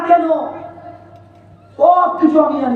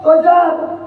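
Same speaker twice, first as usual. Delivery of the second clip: mock-respectful taunt, pitched a little up; teasing; 2 semitones higher than usual. Friends taunting him on his way down the road, teasing. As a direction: needle him with a teasing "sir". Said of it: "আরে আমাকে ওটাই চাপতো সবাই মিলে".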